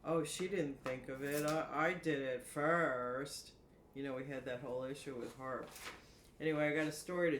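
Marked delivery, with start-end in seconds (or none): 0.0-3.5 mock one-upping with a louder, stretched finish; mock boastful claim. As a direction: imitate a rival claiming credit, drawing out the last words. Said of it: "So they can say".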